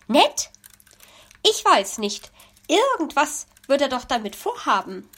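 a chatty bird bursting with news; excited magpie. Acted.

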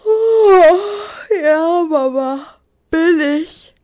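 put-on loud, exasperated teen calling out; annoyed call back. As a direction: shout back with an eye-roll. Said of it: "rief er zurück und verdrehte dabei die Augen".

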